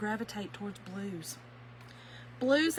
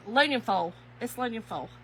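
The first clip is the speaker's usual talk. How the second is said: Kentucky "aluminum foil" squashed to "loonyun fole"; Kentucky accent; 3 dB louder than usual. Shown as a demonstration. Crafter showing viewers her aluminum foil, in Kentucky accent. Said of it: "that is the Kentucky".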